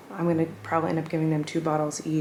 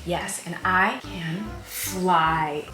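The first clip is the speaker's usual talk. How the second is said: slow character voice; much slower than usual. Acted. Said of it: "And the skid steer said".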